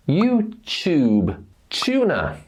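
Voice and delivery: "YouTube", "tuna" with T as CH; T plus oo blended. Shown as a demonstration. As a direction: say "YouChoob", "choona" for "YouTube", "tuna". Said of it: "T followed by oo".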